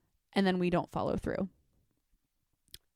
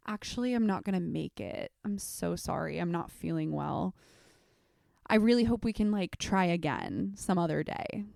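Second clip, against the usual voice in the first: mock flaky apology. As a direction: sound a little sorry while bailing. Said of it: "they text you and go".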